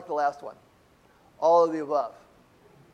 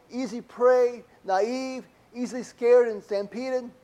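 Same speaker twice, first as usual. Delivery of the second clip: mock complaint; 2 semitones higher than usual. Imagined complaint about sheep.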